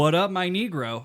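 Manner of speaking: loud, high hammed-up greeting; booming mock hello. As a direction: call it out big, jokingly overfamiliar.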